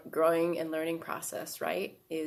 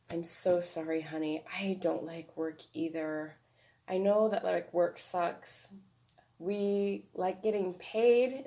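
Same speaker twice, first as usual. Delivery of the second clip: loving adult self. Shown as a demonstration. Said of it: "what a loving, caring, nurturing person would say".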